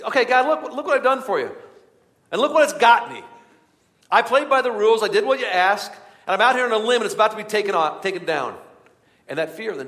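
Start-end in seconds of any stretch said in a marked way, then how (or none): 0.0-8.6 high, loud, aggrieved protest; bitter complaint to God. Retold or imitated. A bitter believer shouting his grievance at God, loud and high. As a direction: throw it up at God like a wronged man.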